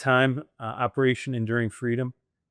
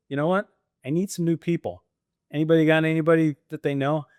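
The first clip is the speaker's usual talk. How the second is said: raised, higher asking voice; calling out to the team; 5 semitones higher than usual. Retold or imitated. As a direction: pitch it up and call out for referrals. Retold asking his team for referrals.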